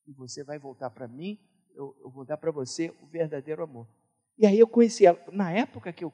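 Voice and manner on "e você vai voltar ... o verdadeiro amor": a hushed heavenly promise; voice of the Spirit. Retold or imitated. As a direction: speak gently as God promising. O Espírito Santo já tinha colocado.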